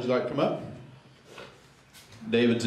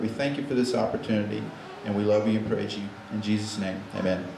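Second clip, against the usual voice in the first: prayer. Real, not acted. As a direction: pray sincerely for the gathered friends. Leads an opening prayer.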